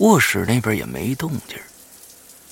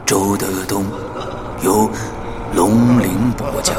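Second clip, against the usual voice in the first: announcer read; 5 dB louder than usual. Acted. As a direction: announce it like a radio promo. Announcer intro over music.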